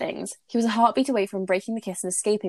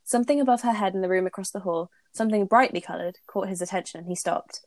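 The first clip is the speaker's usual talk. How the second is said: steady read-aloud narration; story reading. Acted. Reads fanfic aloud.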